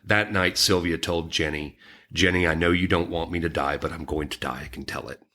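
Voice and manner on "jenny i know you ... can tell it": voice cracking. Real, not acted. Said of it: "my voice cracked on that one".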